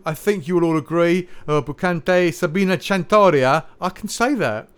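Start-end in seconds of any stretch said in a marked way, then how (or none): 1.6-3.6 lightly put-on Italian accent; half-convincing Italian accent. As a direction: say the names with a touch of Italian. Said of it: "try and put an Italian accent".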